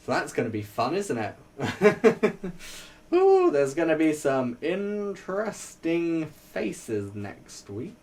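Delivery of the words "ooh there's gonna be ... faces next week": drawn out, relishing the gossip; sly anticipation; slow teasing ooh. Pretend. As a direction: savour it slowly.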